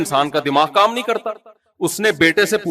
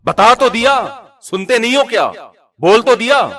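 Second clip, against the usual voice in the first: louder, higher, annoyed brush-off; irritated snapping; 4 semitones higher, 3 dB louder than usual. Retold or imitated. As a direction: snap back at the old father, fed up. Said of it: "ایسے جو style نہیں ہوتا ملازموں والا". (باپ کو جھڑکتا بیٹا، غصے سے)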